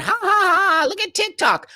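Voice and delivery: high mocking laugh. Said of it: "we're all laughing".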